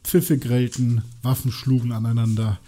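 Vorlesen aus einem Buch. Acted. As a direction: read the battle scene out deliberately. (langsam erzählend vorgelesen)

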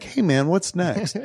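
pleasant. Retold or imitated. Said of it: "was it a pleasant, like".

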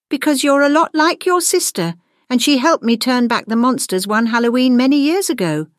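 high-pitched, confiding teacher voice; teacher with a secret. A narrator's reading. Teacher telling Gwendolyn about her sister, high and confiding. Figure in story.

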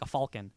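"falcon" said as FAWL-kin; Harrison Ford's falcon. Retold or imitated. Quoting how the actor called it, "falcon" as FAWL-kin. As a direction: round the first vowel of "falcon". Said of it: "like, he called it, like".

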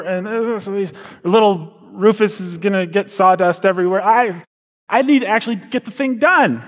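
a put-upon parent complaining; whiny parent. Acted. Voices a busy parent's excuse.

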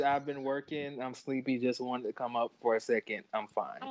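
soft, sleepy reading of her message; quiet tired quote. Retold or imitated. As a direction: read it softly, tired. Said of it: "she said".

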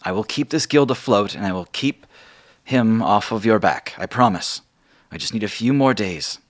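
falter, then promise firmly; Margot's reassurance. Acted. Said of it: "she says".

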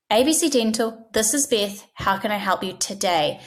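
warm, unhurried phone welcome; friendly greeting. Shown as a demonstration. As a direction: welcome the caller as if you're glad to help. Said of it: "This works".

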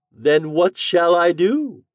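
high, loud, drawn-out question; plaintive, stretched wizard voice. A narrator's reading. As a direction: ask slowly as a theatrical wizard. Wizard asks for help.

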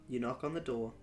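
ordinary talk, nothing marked

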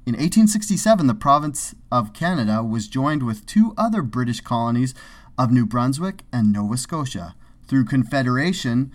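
encyclopedia paragraph read with lively pitch swings; put-on reading voice. Co-host reading Wikipedia on Canada's history, performed reading voice. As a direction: recite history like a presenter, emphasis on the dates. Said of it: "If you talked in that voice".

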